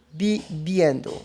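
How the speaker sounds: "bibiendo" said slowly with soft B's; slow teaching model of "bibiendo"; Spanish gerund demo. Shown as a demonstration. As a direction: spell it out in sound: "bibiendo", syllable by syllable. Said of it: "aí eu acrescento iendo".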